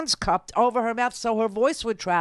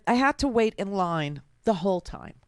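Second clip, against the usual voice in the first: mocking whiny quote. Host mimics congresswoman's complaint in a mildly whiny voice. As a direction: mimic her complaint with a touch of sneer. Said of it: "She said".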